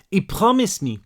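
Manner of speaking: put-on high French-accented girl's voice; young French girl, pitched high; broken English, French accent. A narrator's reading. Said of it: "she said in broken English".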